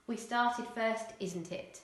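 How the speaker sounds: "isn't it" tag said casually; casual dialect with "isn't it"; non-standard English. Shown as a demonstration. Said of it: "non-standard English".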